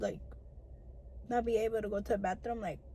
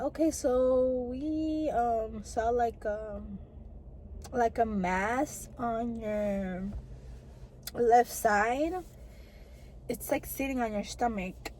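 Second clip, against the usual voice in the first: slow, grave doctor's news; serious doctor; 3 dB quieter, much slower than usual. Retold or imitated. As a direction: deliver bad news slowly and carefully. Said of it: "like, serious".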